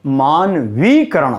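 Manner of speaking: मानवीकरण slowly with stressed long "vee"; correct form. Shown as a demonstration. Teacher confirming the correct word for students, long vee. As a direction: lean on वी in मानवीकरण. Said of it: "शुद्ध शब्द बनता है".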